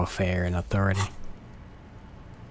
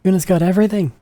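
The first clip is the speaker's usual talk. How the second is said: put-on higher, louder bratty street kid; cocky kid Kuno; 8 semitones higher, 5 dB louder than usual. Streamer voicing a cocky kid who shows off. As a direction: brag like a cocky little punk.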